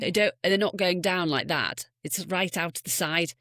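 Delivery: demonstrated Scouse accent; Liverpool accent. Shown as a demonstration. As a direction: speak Scouse with the mouth wide. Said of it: "that's how I would get that".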